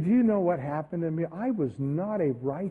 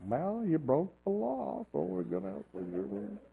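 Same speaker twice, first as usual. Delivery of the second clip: stern cop; 2 semitones lower, 9 dB quieter than usual. Retold or imitated. Retelling the officer's verdict.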